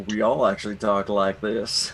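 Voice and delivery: lightly imitated Southern accent. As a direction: put on a bit of Southern twang. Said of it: "like, a very Southern accent".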